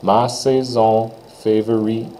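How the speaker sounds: "Ma saison favorite" said slowly, syllable by syllable; slowed down. Shown as a demonstration. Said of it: "if I slow it down".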